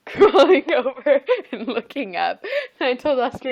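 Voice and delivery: laughing. Real, not acted. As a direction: crack up while telling the story. Cracking up telling toddler story.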